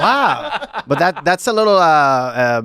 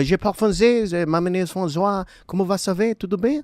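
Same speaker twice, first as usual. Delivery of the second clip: French accent, higher; playful French phrases, pitched up; a mock French accent, higher; 6 semitones higher than usual. Shown as a demonstration. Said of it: "let me hear you do French".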